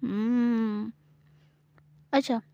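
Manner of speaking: teasing bargain. Acted. Gauri teases Samira and bargains for her silence.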